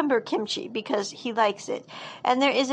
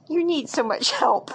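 amused teasing; 5 semitones higher than usual. Retold or imitated. She looks at him, smiles.

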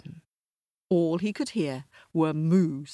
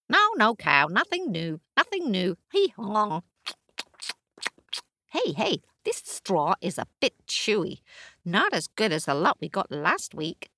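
much higher, brisk braying donkey; 4 semitones higher than usual. Acted. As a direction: bray and chatter cheerfully. Donkey character.

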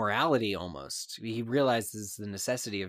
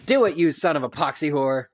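higher, louder taunting shout; defiant shout; 6 semitones higher, 11 dB louder than usual. Acted. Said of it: "I just wanna hear you read the line".

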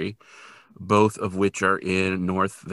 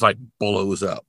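normal talking voice

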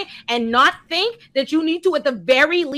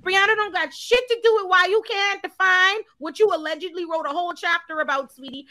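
raised pitch, loud and insistent; indignant rebuttal; 5 semitones higher, 3 dB louder than usual. Real, not acted. Host defends Brianna from blame, loudly indignant. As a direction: hammer it out, high and loud.

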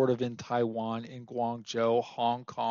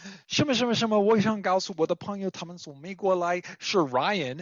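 imitating Chinese host; 5 semitones higher than usual. Host introducing his friend Ryan, imitated as a high announcer. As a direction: play the excited host showing off his American friend. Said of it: "he'd be like".

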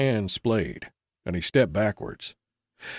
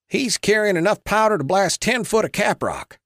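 raised, higher angry protest; 9 semitones higher, 5 dB louder than usual. A narrator's reading. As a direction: bark it out in alarm and anger. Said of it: "Clyde said angrily".

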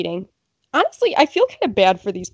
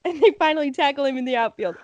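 announcer; 3 semitones higher, faster than usual. Acted. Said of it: "like he's an announcer".

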